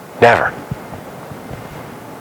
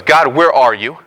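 pleading, climbing higher and slower; Habakkuk's complaint; 5 semitones higher than usual. Retold or imitated. Habakkuk pleading with God to act, voice climbing high. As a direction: cry out to God in exasperated complaint, rising higher line by line. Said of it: "So Habakkuk goes".

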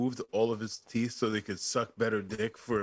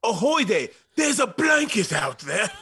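higher, louder ahoy call across the water; sailor shout; 8 semitones higher, 5 dB louder than usual. Retold or imitated. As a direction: hail them like an old sea captain. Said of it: "Be like".

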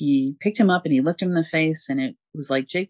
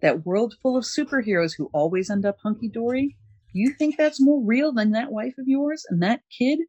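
higher, lightly voiced old friend; Oberon; 5 semitones higher than usual. Oberon comforting Scott, lightly voiced higher. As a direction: reassure him in a friendly higher voice. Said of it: "And Oberon is like".

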